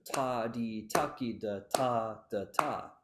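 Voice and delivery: chanted syllables with "ta, da, ta" falling into a lilt; crushed ending. Shown as a demonstration. Teacher showing the common mistake, crushed ending. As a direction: crush the final "ta, da, ta" into a six-eight feel. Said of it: "A lot of people will crush it".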